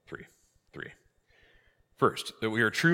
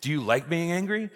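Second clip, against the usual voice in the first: high, louder mock interrogation; pointed questioning; 9 semitones higher, 5 dB louder than usual. Priest quizzing an angry driver, high and mock-insistent. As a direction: quiz them with playful insistence.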